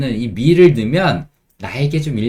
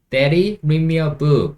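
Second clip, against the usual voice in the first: put-on child asking; 3 semitones higher, much slower than usual. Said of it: "아이들이 하는 말의 느낌".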